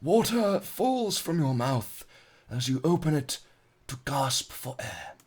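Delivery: hushed wildlife narration, a hint of Attenborough; David Attenborough. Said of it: "I should do this like David Attenborough".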